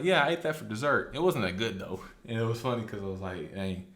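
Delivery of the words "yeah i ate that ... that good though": put-on careless kid voice. Luffy answering casually.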